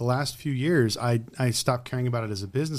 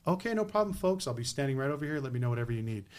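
mock accommodating; 5 dB quieter than usual. Imitating himself, overly accommodating.

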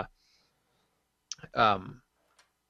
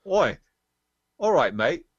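hammed-up, higher-pitched New Zealand greeting; bad New Zealand accent; 6 semitones higher, slower than usual. Festival-goer greeting a stranger who walked over, bad New Zealand accent. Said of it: "I'm gonna do a bad accent here".

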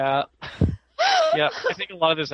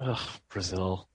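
put-on Portuguese accent; 7 semitones lower, 7 dB quieter than usual. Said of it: "She's speaking Portuguese".

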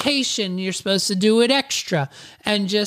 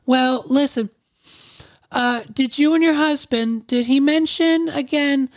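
higher put-on female phone voice; Susan; 7 semitones higher than usual. Receptionist asking after the husband, lightly coaxing impression. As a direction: pitch it up, politely probing. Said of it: "my voice impression keeps changing".

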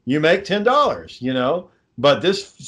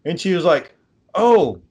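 imitating the lady. Garden center lady voiced in retelling.

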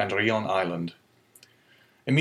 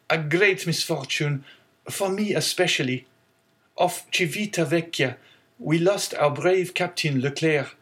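put-on sorrowful young sailor; 7 semitones higher than usual. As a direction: linger on the loss. Sailor repeats news, slower.

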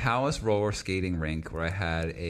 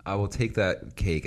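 mock grand declaration.

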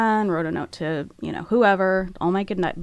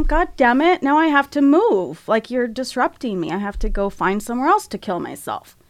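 mock annoyed; 4 semitones higher than usual. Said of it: "and I got mad".

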